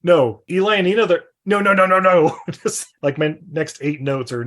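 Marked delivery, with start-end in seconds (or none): 0.0-2.4 higher, mock-incredulous reaction; baffled protest. Reacting to the rumour they're banging, incredulous. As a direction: escalate into a louder string of no's. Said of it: "I'm like".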